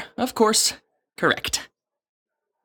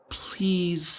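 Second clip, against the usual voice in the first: a breathless whispered please; 7 dB quieter than usual. Acted. Scribe begs Elder Marta for mercy, whispered plea. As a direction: beg under your breath.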